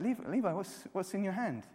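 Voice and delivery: father teasing his little son; curious dad. Retold or imitated. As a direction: coax the boy to show his hand. Father questioning son, voiced.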